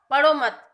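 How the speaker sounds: "पढ़ो मत" as one loud unit, then stop; pause after मत. Shown as a demonstration. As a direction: hit "पढ़ो" hard and break after "मत". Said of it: "अब second है पढ़ो मत, विराम". ("पढ़ो मत" ज़ोर से, फिर विराम)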